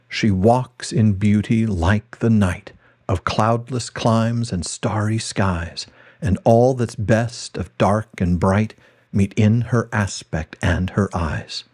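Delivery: slow, measured reading of verse; poem recitation. Acted. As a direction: let each line of the poem breathe slowly.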